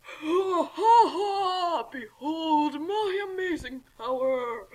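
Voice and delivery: slow mock evil laughter; villain laugh. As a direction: cackle like a triumphant villain.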